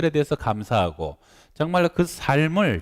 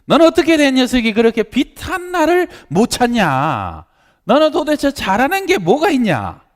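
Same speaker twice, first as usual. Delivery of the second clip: high, loud imitation of a berating mother; loud scolding; 13 semitones higher, 8 dB louder than usual. Mother berates son who cannot find a comb, loud scolding. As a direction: shout it as an exasperated parent's reprimand. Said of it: "막 큰 소리에 책망하는 소리".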